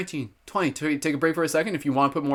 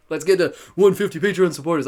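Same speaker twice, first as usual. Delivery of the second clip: Arnold Schwarzenegger; 3 semitones higher, 5 dB louder than usual. Acted. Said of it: "in my Arnold Schwarzenegger voice".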